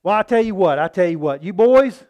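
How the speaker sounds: loud, slowed call to settle the crowd; a leader waving the mob down, loud; calming crowd. Retold or imitated. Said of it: "And further people said".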